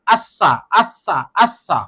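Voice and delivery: আচ্ছা with a long doubled s sound, as আস-সা; doubled consonant. Shown as a demonstration. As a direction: say আচ্ছা slowly, holding the doubled s. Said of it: "ওই হরফটা দুইবার পড়তে হবে". (আচ্ছা, স দুইবার টেনে: আস-সা)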